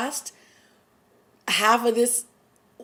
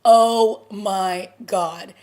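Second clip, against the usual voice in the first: stunned; 6 dB louder, much slower than usual. Real, not acted. Stunned by mother's death.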